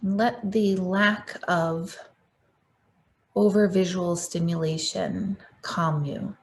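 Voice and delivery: unhurried guiding voice with long pauses; guided meditation. Acted. Meditation leader guiding the group to close their eyes, guided meditation. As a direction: settle listeners inward, phrase by phrase.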